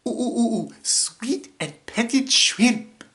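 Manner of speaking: high, eager cartoon voice; character voice. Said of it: "doing the voices and the lines".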